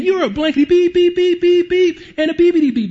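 high, loud bleeped-out cursing; mock censored insults. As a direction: spit out the beeps like a ranting driver. Censored insults from angry driver.

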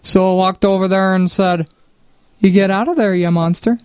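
put-on a light, upbeat Minnesota accent with the folksy lilt. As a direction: play a cheerful Minnesotan telling a lake tale, in a lightly put-on Minnesota accent.

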